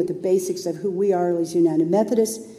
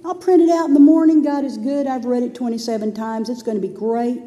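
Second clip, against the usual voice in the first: lightly voiced carefree past self; mock-confident thinking aloud; breezy self-confidence; 4 semitones higher than usual. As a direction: brush it off cheerfully. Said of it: "So I thought".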